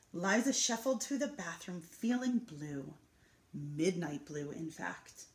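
gentle storytelling read to an audience; picture book reading. A narrator's reading. Reading a picture book to the residents, lively storytelling.

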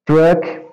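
truck with the U sounding like O. Shown as a demonstration. Teacher explains U sounds like O in truck, modelled pronunciation. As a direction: say truck as \"trok\", open vowel. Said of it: "C U com som de O".

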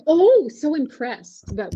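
slow, high mock gushing; breathless mock admiration; gushing American. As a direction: fawn over it like an impressed fan. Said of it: "Americans will be like".

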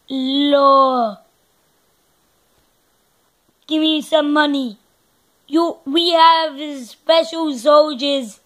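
emphatic put-on Israeli accent. Showing viewers a bit of Israel's language, Israeli accent. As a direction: do an Israeli accent, punching the words. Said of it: "Israel. But I know a bit of their language".

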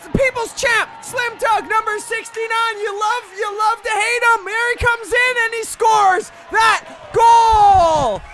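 normal-voice goal call. Acted. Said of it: "using your normal voice".

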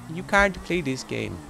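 high, slow mock granny voice; badly faked granny. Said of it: "I can't do a granny voice".

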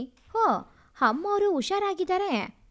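high delighted oh; lightly voiced surprised maid; pleasantly surprised. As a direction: servant surprised to see her up, high and bright. Maid sees mistress recovered.

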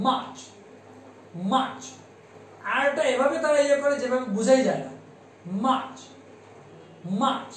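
March with a British long a, the r dropped. Shown as a demonstration. Teacher imitating how the British say March. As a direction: say মার্চ like the British. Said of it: "How they utter this".

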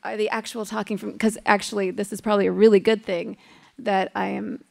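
hoarse with a cold; weak, strained voice from a cold; losing voice from a cold. Real, not acted. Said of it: "don't have much of a voice today".

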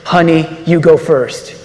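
the cowardly husband pretending to be noble, lightly voiced; mock-noble husband to his wife, deadpan; mock heroic. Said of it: "those noble, heroic words".

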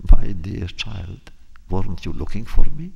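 a hint of a creepy old woman. The old woman answers him.

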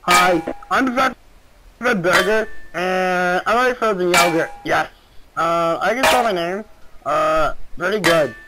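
lightly voiced dim cartoon kid; Fred Burger voice. Doing Fred Burger for a stranger, lightly voiced. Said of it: "You wanna hear me sound like Fred, Fred Burger?".

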